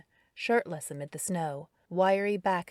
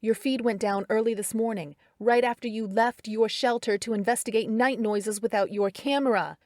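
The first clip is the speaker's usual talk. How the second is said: louder, higher, each word stressed; fuming; 4 semitones higher, 6 dB louder than usual. A narrator's reading. Carrie scolding Darren about his feed, fuming and stressed. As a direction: hammer every word home, fuming. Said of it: "she fumed, stressing each word".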